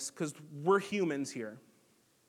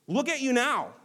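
raised, higher taunting read of the crowd; 6 semitones higher, 4 dB louder than usual. A narrator's reading. Preacher reading the passersby jeering at Jesus, raised taunt. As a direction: throw the crowd's jeer at him. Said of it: "they yelled at him".

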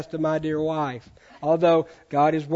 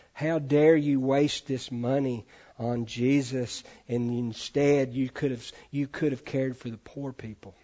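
indignant; 3 semitones lower than usual. Retold or imitated. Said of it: "this indignant response".

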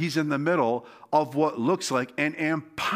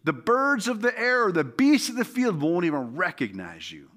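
taunting giant; 4 semitones higher than usual. Acted. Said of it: "That's what he was basically saying".

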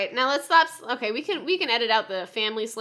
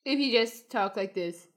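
jaw-out Trump voice; 5 dB quieter than usual. Shown as a demonstration. Co-host trying the jaw-out trick for the voice. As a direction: talk with the bottom jaw punched out. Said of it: "a lot of the voice if".

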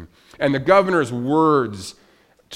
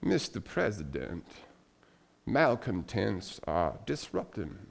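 put-on mild Southern Alabama accent for the governor; 5 dB quieter than usual. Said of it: "this thick Alabama accent".

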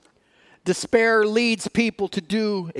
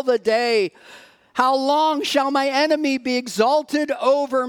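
scripture reading; 2 semitones higher than usual. Acted. Preacher reading the psalm to the congregation, solemn and earnest. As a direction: read it as a heavy lament.

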